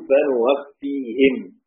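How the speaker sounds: فنوفيهم very slow, opening on nun; فنوفيهم بالنون ببطء; the rest read with nun. Shown as a demonstration. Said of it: "الباقون".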